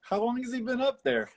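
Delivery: high, far-off townsman voice, calling out; hollered mock townsfolk call; playful caricature of a local yelling; imitating a townsman. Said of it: "he's like".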